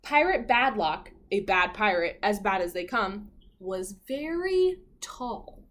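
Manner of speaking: put-on lively read-aloud for children; animated children's story narration; storybook narration. A narrator's reading. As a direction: read it like a picture book to kids.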